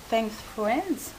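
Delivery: Thanks Friends in a clumsy French-accented English; bad English accent. Shown as a demonstration. Crafter reading her stamp aloud in a self-mocking bad English accent. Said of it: "j'ai un accent anglais déplorable".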